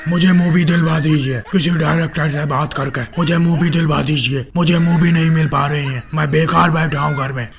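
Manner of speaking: lightly acted plea to a leader; hint of a needy film star; pleading out-of-work actor.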